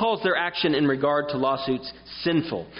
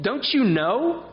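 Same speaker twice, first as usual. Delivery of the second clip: 1 incredulous Paul; 5 semitones higher than usual. Pretend. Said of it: "think about Paul and say".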